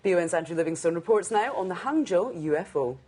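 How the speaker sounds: measured, scripted news introduction; news anchor read. Real, not acted. Anchor introducing a reporter's story to viewers, in a news read. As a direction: read it as a fluent bulletin link.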